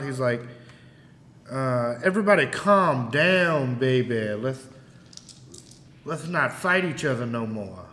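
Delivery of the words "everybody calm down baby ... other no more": calming shout. Acted. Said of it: "He gives a quick shout".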